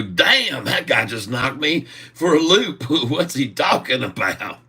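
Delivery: mock stunned. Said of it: "And I'll go".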